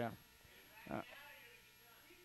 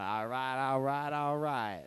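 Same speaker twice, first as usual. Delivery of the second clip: a hint of a slow, lazy drawl; lightly voiced Texan movie star; Matthew McConaughey; 2 semitones lower, slower than usual. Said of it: "Matthew McConaughey impression".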